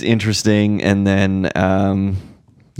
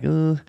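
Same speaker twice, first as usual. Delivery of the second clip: uneasy groan; 8 semitones higher than usual. Retold or imitated. Hesitant reaction to using the fireplace.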